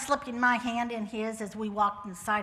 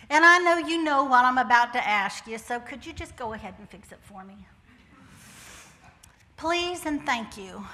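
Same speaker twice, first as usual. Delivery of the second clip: put-on praying like a child; 6 dB louder than usual. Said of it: "I just say".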